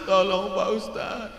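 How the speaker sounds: high, pleading voice of a desperate father. Retold or imitated. Worried father begging the cleric for help.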